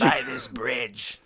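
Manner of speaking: slow, stretched comic echo; echoed cartoon voice. Friend echoing the bridge-selling bit, put-on cartoon voice. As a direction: copy the silly drawn-out pitch.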